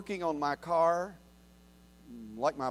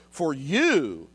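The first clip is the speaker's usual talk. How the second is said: the word you leaned on, louder; stress on you; 2 semitones lower, 3 dB louder than usual. Shown as a demonstration. Preacher reading scripture, stress on you. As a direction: hit you hard in For you. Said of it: "you need to underline the word you".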